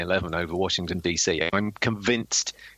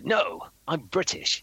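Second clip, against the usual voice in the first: higher, drawn-out British impression; George Mason; 7 semitones higher, slower than usual. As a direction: stretch it out in a put-on British voice. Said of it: "an Eddie Izzard doing George Mason voice".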